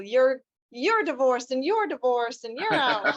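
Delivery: playful singsong pronouncement, partly laughed; mock ceremonial. Judge handing out divorces to a courtroom, mock ceremonial. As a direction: imitate a judge dishing out rulings. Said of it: "Doing the ceremonial".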